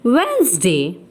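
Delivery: Wednesday said as "Wensday", silent D; correct pronunciation. Shown as a demonstration. Teacher to class, Wednesday said "Wensday". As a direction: say Wednesday with two syllables, no D. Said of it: "The correct pronunciation is".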